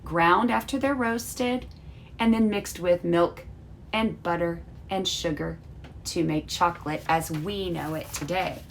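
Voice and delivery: lively storybook read-aloud for a class; reading a story to children. Acted. Teacher reading Felix's letter to her class, storybook voice. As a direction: read the letter like a bedtime story, bright and clear.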